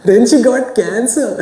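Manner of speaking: high, slow mock wail; acted crying. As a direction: drag the words out in a hammed-up weepy voice. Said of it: "I'm going to cry".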